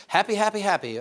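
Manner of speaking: happy squeaked high and loud; mock gleeful. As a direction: overdo the joy, sing-song. Mocking forced happiness.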